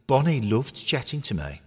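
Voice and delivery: high, loud, cocky toy voice; deluded knitted footballer. Acted. Knitted Troy insisting to Harry he's Troy Deeney, high and cocky. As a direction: puff up and claim you're the real star.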